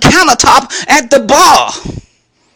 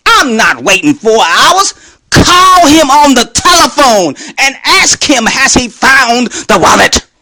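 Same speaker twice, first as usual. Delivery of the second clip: acted-out angry order; worked-up, exasperated retelling; wrathful demand. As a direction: demand it with emphatic, punched words. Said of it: "feel the wrath I had in me".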